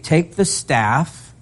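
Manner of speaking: drawn-out commanding God voice; a measured divine command, slowed right down; slow voice of the Lord. Acted. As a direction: speak as the Lord, slow and weighty. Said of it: "the Lord spoke to Moses, saying".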